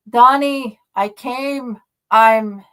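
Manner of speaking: high, loud desperate call into the wind. A narrator's reading. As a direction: call to a friend across the snow. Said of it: "Kane called".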